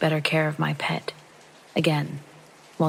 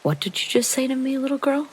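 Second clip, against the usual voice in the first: much higher mock German-accented voice; put-on German-ish challenge, pitched way up; vaguely German accent; 9 semitones higher than usual. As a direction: imitate a menacing man with a hint of German accent. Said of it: "he says with some accent, maybe German".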